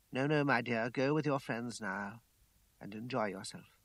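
soft, low motherly voice; gentle reassurance. A narrator's reading. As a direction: reassure her softly, fading at the end. Mother gently reassures and dismisses daughter.

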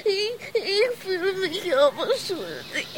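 soft, halting admission; quiet guilty confession. Acted. Guilt-ridden friend confesses quietly to the others. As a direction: barely get the guilt out. Guilt over the dead man.

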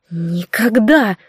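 slow, hissed never; hissed refusal. A narrator's reading. Наргиз refuses the sorcerer, hissing. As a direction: spit it through the teeth. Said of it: "прошипела Наргиз".

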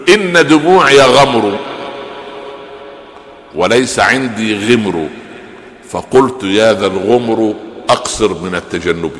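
slow, drawn-out classical verse; poem recitation. Acted. Sheikh recites Qutrub's verse to students, slow and solemn. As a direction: chant each word of the verse deliberately.

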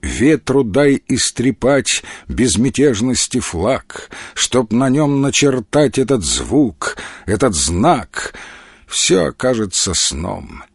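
slow, measured verse reading; poem recitation. Acted. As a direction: recite it evenly, lingering on line endings. (размеренное чтение стихов)

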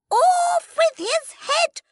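high, loud, slow snap; the Queen snapping at the Cheshire Cat. Acted. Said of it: "the Queen snapped at the cat".

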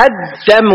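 "الدم" as ad-damu, doubled d; doubled dal, light mim. Shown as a demonstration. Teacher modelling for the students, "الدم" with doubled d. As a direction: hold the d in "الدم", keep the m single. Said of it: "بتشديد الدال".

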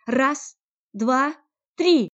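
high, loud, building to a yell on три; loud countdown. Acted. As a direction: count down and shout the last. Counting down before firing.

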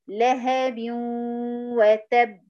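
لهب ending in a clear rounded u, held with a nasal hum, then وتب; correct damma glide. Shown as a demonstration. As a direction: hold the u of لهب before وتب. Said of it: "لو أقول إيه؟".

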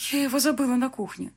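high-pitched, nervous admission; getting nervous. A narrator's reading. Bride admitting she forgot the bouquet, nervous. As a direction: start to fret, pitch lifted. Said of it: "начала нервничать я".

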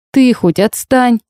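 high, slow whimpering plea; whining plea. A narrator's reading. Heroine whines at the demon to stop, high and slow. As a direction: whine at him to leave her alone. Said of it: "прохныкала я".

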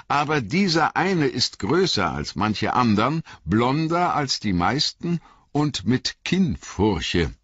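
lightly voiced garrulous innkeeper, rambling; a talkative landlord spinning his tale; chatty innkeeper. A narrator's reading. Innkeeper rambling on to Frodo, lightly voiced.

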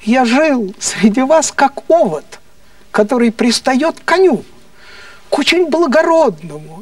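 a lightly voiced defiant Socrates warning his judges; Socrates addressing the Athenians. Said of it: "и он говорил им".

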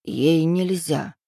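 slow, firm objection; measured, stretched-out protest; objecting. A narrator's reading. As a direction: draw the words out in protest. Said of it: "возразил паук".

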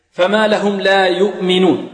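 recited يؤمنون with a full rounded "yu"; ضم الياء. Shown as a demonstration. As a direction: round the lips well on the first vowel of يؤمنون. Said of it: "وكذلك نضم الياء ضما جيدا". (تلاوة يؤمنون بضم الياء ضما جيدا)

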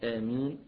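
آمين with the final ي held for two counts. Shown as a demonstration. Teacher showing the shortest ي in آمين, brisk. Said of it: "ممكن يقول مثلًا".

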